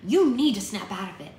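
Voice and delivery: loud, firm sisterly command; losing patience. A narrator's reading. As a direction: snap him out of it. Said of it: "Bristol was losing patience".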